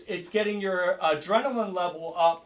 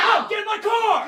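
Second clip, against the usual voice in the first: high, louder predator shout; 14 semitones higher, 5 dB louder than usual. Acted. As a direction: push harder at the class. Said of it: "and I'm gonna get louder".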